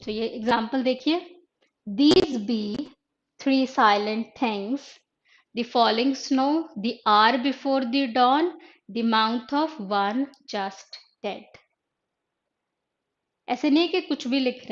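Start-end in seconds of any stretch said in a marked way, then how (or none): 1.9-11.4 very slow, measured reading of the poem; slow poetry recitation. Shown as a demonstration. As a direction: draw out each image slowly. Teacher reads cinquain aloud.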